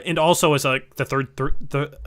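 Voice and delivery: stumbling restarts on the same word; real tongue-tied false starts; tripping over words. Real, not acted. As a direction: lose your place and stutter through it. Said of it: "I'm tripping over my words".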